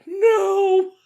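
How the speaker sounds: high-pitched panicky answer; freaked out. Retold or imitated. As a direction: insist you are not okay, rattled. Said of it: "And I'm like".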